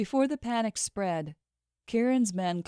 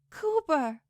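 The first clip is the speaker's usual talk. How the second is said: worried call; 10 semitones higher than usual. Acted. Reaching fallen friend.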